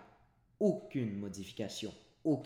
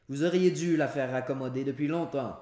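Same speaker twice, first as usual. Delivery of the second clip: higher and louder, a wife scolding her husband; reproachful wife; 4 semitones higher, 9 dB louder than usual. A narrator's reading. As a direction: complain firmly about the broken stair. Wife reproaches husband about stair.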